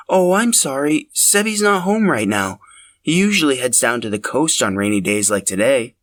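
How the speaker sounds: an apologetic, understanding mother at the door. Acted. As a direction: Robin gently explaining he's out. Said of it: "She said it in a tone of understanding".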